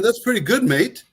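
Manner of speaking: lightly voiced tough guy won over; impressed big guy. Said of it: "he said".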